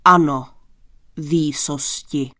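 low, booming reply; big man's thundering yes; thunderous assent. A narrator's reading. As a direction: boom it out low to the king. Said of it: "přisvědčil hromovitě muž".

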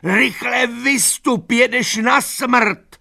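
panicked high pleading; desperate plea. A narrator's reading. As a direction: beg him to jump out. Lupina begs Boxer to escape.

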